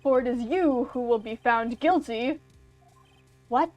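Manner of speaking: lightly voiced theatrical villain, slowing on the speech; a hint of a grand, smug game villain; gloating villain. Villain lording his power over the attorney, hammed-up.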